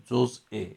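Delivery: جزء as joz-'e, with a glottal catch; pronounced with hamza. Shown as a demonstration. Teacher repeating the accepted form, hamza pronunciation. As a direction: say جزء split before a final e. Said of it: "همزه تو رو ت-، تلفظ کنیم".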